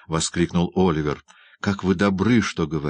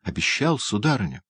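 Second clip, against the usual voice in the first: delighted cry; 3 semitones higher than usual. Acted. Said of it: "вскричал Оливер, просияв".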